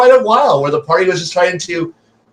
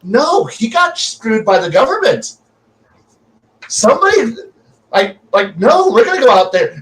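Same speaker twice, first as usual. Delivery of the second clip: indignant players; 6 semitones higher than usual. Retold or imitated. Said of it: "they're like".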